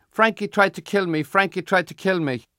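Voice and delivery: put-on high, loud child's yell. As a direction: yell it out while running away. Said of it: "runs off yelling".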